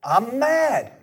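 put-on high, indignant outburst of the older brother; a hint of a sulky brother's protest; mock angry. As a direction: bristle like a sulking older son. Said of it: "He's angry".

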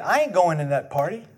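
sulky refusal. Acted. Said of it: "he would not go in".

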